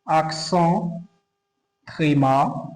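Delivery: "accent tréma" in French, with a pause between words; French term. Shown as a demonstration. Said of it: "every accent in French has name".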